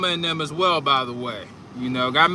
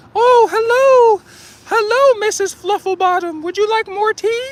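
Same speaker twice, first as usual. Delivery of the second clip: very high pretend playing-house hostess voice; 3 dB louder than usual. Describing playing house at tea time with a daughter, in a high-pitched tea-party voice. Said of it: "you speak in your high pitched voice".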